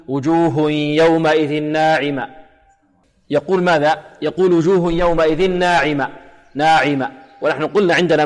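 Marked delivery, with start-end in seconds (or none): 0.1-2.3 وجوه يومئذ ناعمة chanted slowly, ending on a bare "a"; dropped final ha. Shown as a demonstration. Quran teacher imitates students' error, dropped final ha. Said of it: "لا يوضح هذه التاء، يقول". 4.5-7.1 ناعمة ending on an open "a", no h; dropped final ha. Shown as a demonstration. Quran teacher repeats students' mistake, dropped final ha. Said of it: "لا يوضح هذه التاء، يقول".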